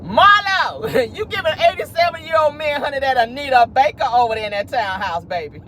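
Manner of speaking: teasing through laughter, rising up; giggling, mock-scolding a friend; laughing tease. Real, not acted. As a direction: laugh while you call her out.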